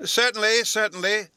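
high, loud double certainly; eager agreement. A narrator's reading. Professor eagerly agreeing with the Emperor, high and loud. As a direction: jump to agree, twice over.

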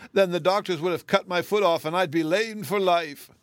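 high, distressed lament; wailing. A narrator's reading. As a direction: lament it tearfully. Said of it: "she wailed".

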